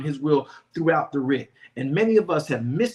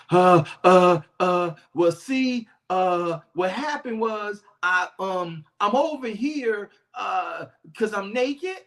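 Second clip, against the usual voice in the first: stammering excuse; 3 dB louder, slower than usual. Acted. Adam stammering excuses to God.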